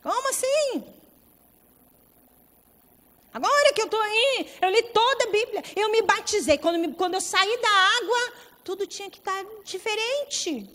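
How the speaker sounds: high-pitched, disbelieving protest; indignant complaint. Acted. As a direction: plead your case like a wronged new believer. Acting an indignant new believer. (queixa indignada, em voz aguda)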